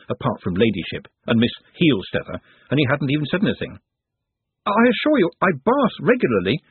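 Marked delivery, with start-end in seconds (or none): 4.7-6.6 higher, earnest protest. Acted. Nut protests to Glenda that he washes. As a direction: insist on it, offended. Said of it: "he protested".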